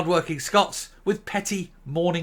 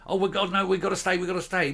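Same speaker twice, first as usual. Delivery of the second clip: imitating worried party members, higher pitch; lightly mocked pleading in a raised voice; mock panicky party members; 5 semitones higher, faster than usual. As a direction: plead like anxious party loyalists, hammed-up. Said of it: "people in his own party are like".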